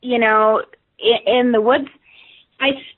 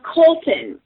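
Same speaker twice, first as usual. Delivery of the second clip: calling a name, second syllable stretched long; drawn-out call; 5 semitones higher than usual. Retold or imitated. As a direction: call out Colton, dragging the ton. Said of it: "I really drugged that second syllable out".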